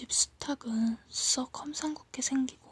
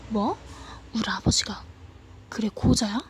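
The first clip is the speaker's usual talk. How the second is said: indignant shout; 5 dB louder than usual. Acted. Boy's indignant retort.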